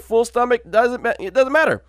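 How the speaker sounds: ordinary talk, nothing marked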